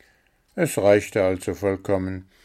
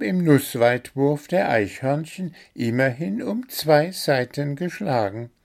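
comforting; 8 semitones higher, 3 dB louder than usual. A narrator's reading. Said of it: "versuchte ihn Zwitschi zu trösten".

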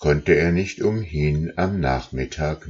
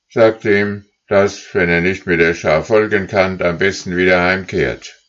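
leader goose calling; 3 semitones higher, 5 dB louder than usual. Acted. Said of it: "rief die Führergans".

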